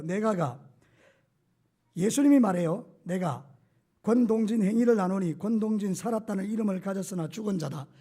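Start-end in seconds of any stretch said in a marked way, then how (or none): 3.0-7.9 reading with own name inserted. Shown as a demonstration. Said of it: "이렇게 읽는 거예요".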